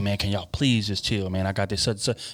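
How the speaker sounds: put-on calm, pleading tone. Acting out how the man asked them to chill: imitating a calm plea. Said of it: "He's pleading. His voice is not high".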